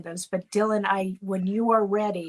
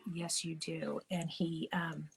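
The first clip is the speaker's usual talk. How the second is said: getting emotional; 2 semitones lower, 9 dB quieter, slower than usual. Real, not acted. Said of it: "I'm gonna get all emotional".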